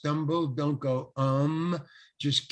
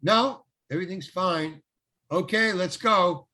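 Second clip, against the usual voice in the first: raised mock call across a distance; higher, punchy retold shouting; 4 semitones higher, 4 dB louder than usual. Actor and director before the take, lightly acted calling out.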